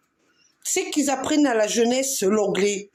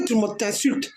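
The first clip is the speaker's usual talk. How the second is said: ordinary delivery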